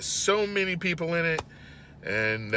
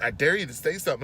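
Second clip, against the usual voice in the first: put-on gangster old woman; 4 dB quieter, faster than usual. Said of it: "she gets all gangster on me".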